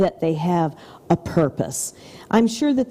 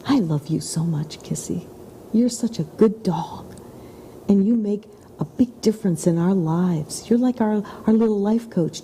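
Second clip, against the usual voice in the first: tender whisper to dog. Retold or imitated. Owner whispering love to her dog Kissy, tender and hushed. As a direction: whisper it lovingly, close to her ear. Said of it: "I said".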